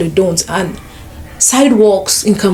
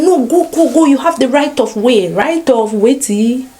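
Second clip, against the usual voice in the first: urging drivers; 4 semitones higher than usual. Retold or imitated. Drivers urging her to cross.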